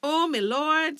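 high, loud dramatic exclamation; alarmed cry. A narrator's reading. Woman discovering the faceless child, alarmed cry. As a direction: cry out in shock. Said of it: "she cried".

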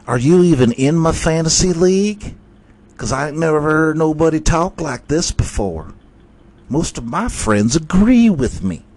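high, loud goofy fan voice calling the guys; mock fan. Fan rounding up his friends, in a high goofy voice.

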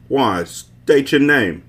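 wary Haitian gatekeeper voice; Haitian accent. A narrator's reading. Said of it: "a voice sounded in a Haitian accent".

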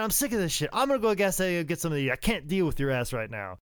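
high, fast mock rant winding down; Bobby Eaton. Bobby leaving for the gas station, exasperated. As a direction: storm off fed up, pitch dropping at the end. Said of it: "Bob was like".

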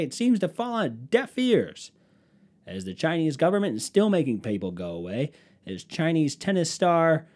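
playing a TV newscaster, half joking. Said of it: "Let me do my little newscaster voice".

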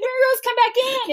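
put-on high, drawn-out call to a far-off child. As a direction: slowly call her back from the shore. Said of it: "And I'm like".

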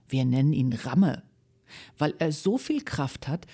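lively storyteller voice reading aloud; children's story reading. A narrator's reading. Guest reading a children's book live on radio, lively storytelling. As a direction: read it like a bedtime story for kids.

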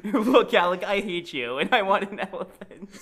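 laughing through the line. Retold or imitated. Re-reading the quote laughing.

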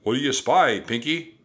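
shouting. A narrator's reading. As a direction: shout up to a crewman. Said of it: "shouted Captain Bones".

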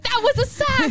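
high-pitched excited cheer; thrilled, high mock cheering; imitated hyped mom. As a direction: exclaim like a newly keen football mom. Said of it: "she's so hyped".

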